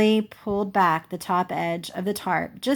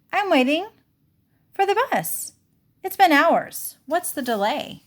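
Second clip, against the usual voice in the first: put-on high, fragile old woman's voice; puzzled old woman; 9 semitones higher than usual. Grandma explains to the children she waits for the bus, high and puzzled. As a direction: sound lost and patient.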